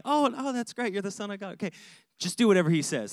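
lightly voiced mom who won't take no, opening high on "Oh"; a hint of a mother overruling her son; mock mother. Mary lightly voiced as a pushy mom talking past her son. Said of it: "you can just see her doing that".

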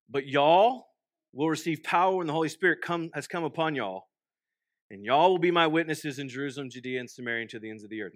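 scripture reread the Texas way with y'all; a light Texan reread of the verse; Texas-flavoured scripture reading; Texas vernacular reading. Shown as a demonstration. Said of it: "reread it in my Texas vernacular".

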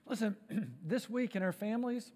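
ordinary talk, nothing marked

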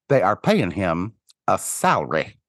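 imitated Midwestern accent, "salary" squeezed into two syllables. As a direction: say it Midwestern, "salary" as "sal-ree". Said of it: "in that perfect Midwestern accent".

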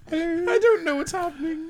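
high, soft mock Irish voice; Irish guy accent. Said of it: "That's his Irish guy".

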